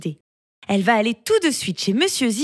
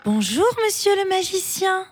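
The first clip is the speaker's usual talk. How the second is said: very intimidated; 11 semitones higher than usual. Acted. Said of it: "très intimidée".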